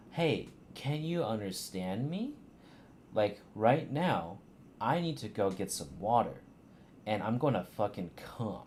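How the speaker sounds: put-on slow, talking down as to a child; overly slow reading. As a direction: parody of a slow, over-careful voice actress. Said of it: "She speaks a little too slow".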